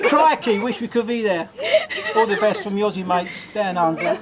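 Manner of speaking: hammed-up Aussie mate reading a message; a best man putting on an Australian accent for a mate's message. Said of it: "Forgive the accent".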